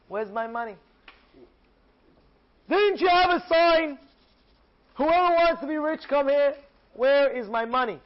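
demanding what was promised, furious; indignant demand. Acted. Yossi confronting Rabbi Abba over the money, outraged and loud.

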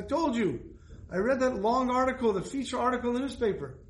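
lightly voiced businesslike man pressing his point; mock no-nonsense caller on the phone; no-nonsense donor. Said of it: "obviously a no-nonsense person".

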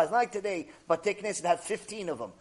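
usual speaking voice

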